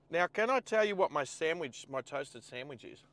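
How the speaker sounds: talking while eating; words around a bite of food; mouth full. Real, not acted. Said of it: "I could hear you were eating".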